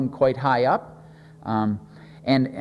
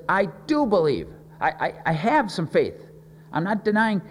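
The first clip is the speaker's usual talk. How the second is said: higher-pitched insistence, stressing "do" and "have"; earnest exclamation; 4 semitones higher than usual. Acted. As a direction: imitate a father eagerly protesting his faith. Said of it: "the boy's father exclaimed".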